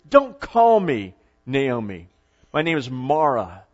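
slow, bitter acted refusal; bitter and angry. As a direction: drag the words out with restrained anger. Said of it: "She's bitter. She's angry".

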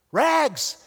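high, loud single call; crying out. A narrator's reading. Bleeding rag man crying out to the city, loud and high. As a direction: shout it down the street. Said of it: "he cried out".

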